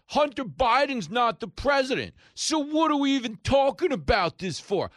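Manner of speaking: very high, loud indignant squawk; exaggerated righteous protest; mock self-righteous. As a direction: shout it like an outraged pundit, hammed up. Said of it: "like when they used to say".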